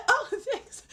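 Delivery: high, loud oblivious thank-you; Penny. Retold or imitated. Sitcom character thanks someone for chocolate, high mock-grateful voice. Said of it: "Penny's just".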